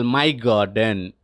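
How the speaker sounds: my said slowly and pressed, garden falling; slow down and weigh the word my; stress on my. Shown as a demonstration. Teacher shows class the giant's stress on my. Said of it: "He emphasizing the word my".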